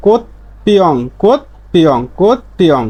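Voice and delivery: কোত পিয়ং with p in place of b; changed consonant. Shown as a demonstration. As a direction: repeat কোত পিয়ং in parts, crisp p. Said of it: "বিউপের উচ্চারণ প হয়ে যাবে". (কোত পিয়ং, ব-এর জায়গায় প)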